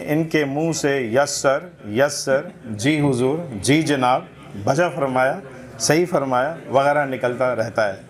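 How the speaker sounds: measured literary reading aloud; humorous essay recitation. Acted. Reader presenting a satirical essay to a literary gathering, recitation. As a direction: read it out for a listening audience.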